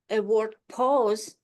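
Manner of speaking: "pause" drawn out slowly and loudly, set apart; stress on pause. Shown as a demonstration. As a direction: lean hard on "pause" and let it hang. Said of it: "When you practice your speech".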